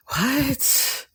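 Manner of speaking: sudden high, soft gasp of a question; shocked what. Retold or imitated. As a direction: jolt up in disbelief. Told no epidural, shocked.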